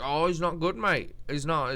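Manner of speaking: light attempt at a Leon accent. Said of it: "That's like a Leon accent".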